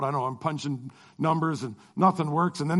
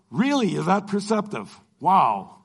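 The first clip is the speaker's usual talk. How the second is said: mock amazement, pitched up; sarcastic; slower than usual. Stressed traveller silently mocking the billionaire, sarcastic.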